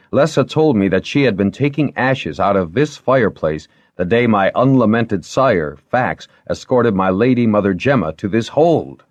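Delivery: young lord telling his news, lightly acted. Character dialogue read in story.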